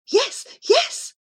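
high, light voice of the cat. Acted. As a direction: voice the cat Miss Scurry high and airy. Cat speaks.

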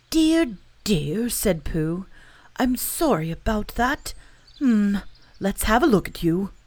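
a sympathetic little bear fussing; concerned bear. Acted. Pooh sympathises with Eeyore.

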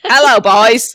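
put-on Irish accent with a flirty rise; mock Irish accent. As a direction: put on a cheesy Irish lilt for the greeting. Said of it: "That's your Irish accent".

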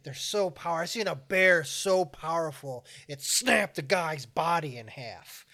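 lightly voiced tall-tale guide, slow; mock ominous storyteller. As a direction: draw out the horror slowly. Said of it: "he's like".

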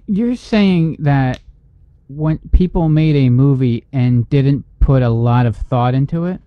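slow, deliberate sarcastic question; mock disbelief. Real, not acted. Co-host teasing the fan over a careless movie, mock disbelief. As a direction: feign astonishment, dragging it out.

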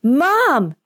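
high cry of delighted disbelief; joyful, astonished exclamation; happy, incredulous shout. A narrator's reading. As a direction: shout it like a boy who can't believe his eyes. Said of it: "he shouts happily and incredulously".

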